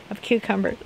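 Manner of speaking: talking through hiccups; words broken by real hiccups. Real, not acted. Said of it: "I have the hiccups".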